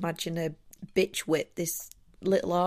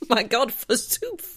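hammy stage actor; 5 semitones higher, 4 dB louder, slower than usual. Pretend. Mock archaic exclamation.

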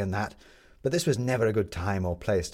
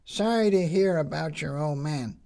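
put-on high girl voice; 7 semitones higher than usual. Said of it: "said Tin Lizzie".

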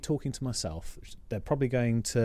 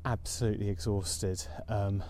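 out of breath. Real, not acted. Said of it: "I can barely talk".

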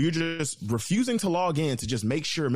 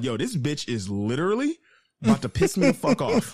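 retold cussing; 4 semitones higher, 4 dB louder than usual. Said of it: "I'm cussing up a storm".

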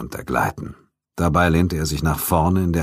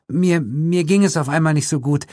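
high stammering woman; high nervous excuse; nervous lie; 11 semitones higher than usual. A narrator's reading. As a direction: lie through fear. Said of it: "log sie".

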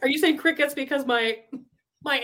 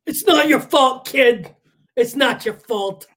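acted reassurance; 8 dB louder, slower than usual.

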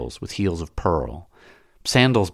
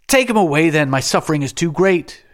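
very high, loud anguished shriek; shrieking lament; 10 semitones higher, 6 dB louder than usual. A narrator's reading. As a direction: shriek like a funeral mourner. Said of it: "shrieked like the women who lament".

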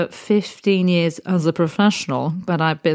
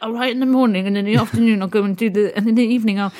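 breezy; 5 semitones higher, faster than usual. Retold or imitated. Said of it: "you would have been like".

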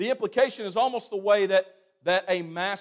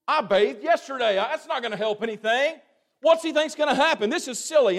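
louder, mocking disbelief; scoffing Naaman; 5 semitones higher, 3 dB louder than usual. Raised, scornful dismissal. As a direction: Naaman scoffs at the prophet's plain instruction, annoyed and raised. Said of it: "And he was angry".

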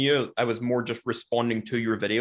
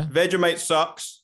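slow, higher-pitched jab; deliberate taunt; 4 semitones higher, much slower than usual. Acted. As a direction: draw it out to goad him. Deliberately baiting the Australian host.

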